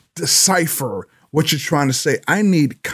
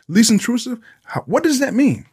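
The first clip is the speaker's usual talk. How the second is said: exasperated; 8 semitones higher than usual. Real, not acted. Exasperated high questioning.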